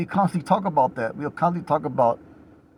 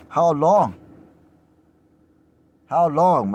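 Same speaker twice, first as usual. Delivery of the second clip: "How long" called out loud and raised; loud cry; 3 semitones higher, 5 dB louder, much slower than usual. Acted. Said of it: "They cry with a loud voice".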